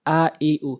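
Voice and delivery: "আ, ই, উ" each said short, without drawing out; short recited vowels. Shown as a demonstration. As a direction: recite "আ, ই, উ" as brief separate vowels. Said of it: "দ্রুত উচ্চারণ করতে হবে".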